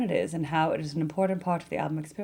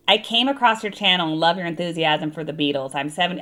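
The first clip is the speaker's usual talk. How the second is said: natural Midwestern accent, a bit louder; 3 dB louder than usual. Shown as a demonstration. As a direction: read it in plain Midwestern accent. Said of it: "'Cause otherwise I'm like".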